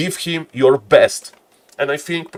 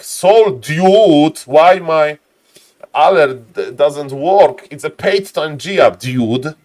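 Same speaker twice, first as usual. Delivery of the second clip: mock-furious, louder, higher complaint; enraged player; 4 semitones higher, 7 dB louder, much slower than usual. Caster imitating an enraged player over a broken alert, loud mock rage. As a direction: rant like a fed-up player whose alert broke. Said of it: "That's what Professor Enraged Professor Lemes would say".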